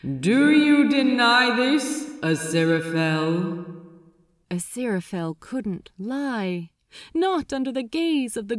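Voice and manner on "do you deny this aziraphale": loud, cold and merciless demand; cold, pitiless Metatron. A narrator's reading. Metatron interrogating Aziraphale, cold, loud and pitiless. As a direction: judge him without a shred of pity. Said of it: "voice came as cold and pitiless".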